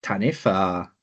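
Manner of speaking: attempted Welsh accent, sounding Indian; failed Welsh accent. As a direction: try Welsh, drift towards an Indian accent. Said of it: "that's your Indian accent".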